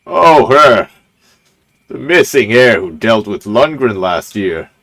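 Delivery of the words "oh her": a lightly voiced lord, off from the intended voice; a slip into the wrong character voice; wrong voice for him. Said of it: "That's not the voice I'm supposed to give him".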